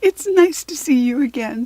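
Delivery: high, loud, delighted little greeting; Savannah, tinkling fairy voice. A narrator's reading. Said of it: "said the voice".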